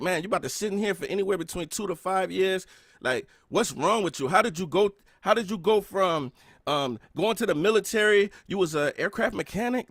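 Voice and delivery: scolding yourself from a prison cell; defeated inner voice. Retold or imitated. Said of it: "I remember feeling defeated".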